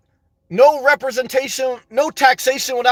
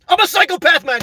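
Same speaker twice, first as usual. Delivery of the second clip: mock confession; 7 semitones higher, 3 dB louder than usual.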